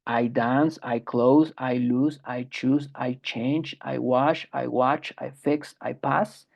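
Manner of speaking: first person verbs read out plainly; plain base forms. Shown as a demonstration. Teacher reading the first person list, plain. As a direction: say each verb without an ending. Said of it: "en su forma de primera persona".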